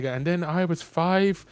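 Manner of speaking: rambling storyteller. Retold or imitated. Man rambling a tangent to scammer.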